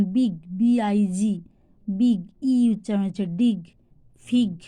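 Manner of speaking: বিগ with a short "i". Shown as a demonstration. Teacher showing the sounds of I, short "i" in বিগ. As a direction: spell বি আই জি, then say বিগ with short "i". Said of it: "যখন হস্যই হয়".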